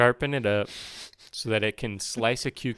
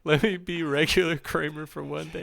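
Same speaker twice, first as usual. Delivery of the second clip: put-on Australian accent; 4 semitones higher, 4 dB louder than usual. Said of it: "Stop making me do Australian Kramer".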